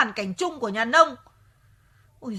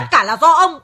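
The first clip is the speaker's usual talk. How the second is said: louder, laughing as she pins it on him; laughing blame; 3 semitones higher, 8 dB louder than usual. Real, not acted. Wife pins the accident on her husband, laughing. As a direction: laugh while blaming him.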